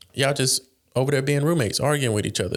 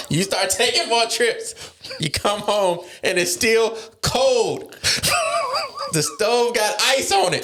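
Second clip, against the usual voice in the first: words squeezed out high through laughter; slow, cracking up mid-sentence; fighting back laughter, voice pitched up; laughing while talking; 11 semitones higher, slower than usual. Real, not acted. Laughing through his own joke.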